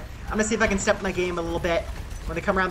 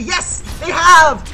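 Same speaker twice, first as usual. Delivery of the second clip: excited; 8 semitones higher, 10 dB louder, much slower than usual. Real, not acted. Teammates avenged him.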